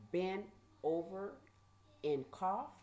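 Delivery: slow, disbelieving repeat with rising ends; puzzled, halting repetition, pitch near normal; shocked questioning echo. Retold or imitated. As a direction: echo an order you can't believe. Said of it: "like, in shock".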